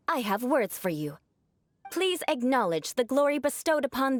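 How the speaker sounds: formal noble proclamation; stilted aristocratic speech. Shown as a demonstration. Noble ordering a lowly toiler to kneel, stilted and lofty. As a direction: talk down with ceremonial stiffness. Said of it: "purposefully using their awkward way of speaking".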